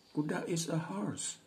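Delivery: put-on high childlike answer; child's voice. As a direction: answer like a small kid. Menjawab sebagai anak. (suara anak kecil yang menjawab)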